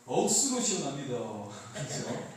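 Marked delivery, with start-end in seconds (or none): 0.1-1.2 light Gyeongsang accent on the phrase; a playful Gyeongsang-dialect version, lightly done; mild Gyeongsang twang. Shown as a demonstration. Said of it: "경상도는 이렇게 하죠".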